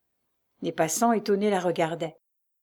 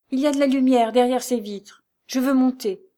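raised, high and forceful; irritated insistence; 6 semitones higher, 7 dB louder than usual. A narrator's reading. Lucie demanding to go upstairs, irritated. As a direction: insist hotly, carried away by irritation. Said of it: "que l'irritation emportait".

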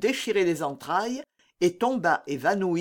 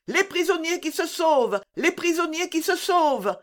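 high, sustained cry of alarm; shouted alarm; 10 semitones higher than usual. A narrator's reading. Sergeant alerting his men to the escape, crying out. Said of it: "cria le sergent".

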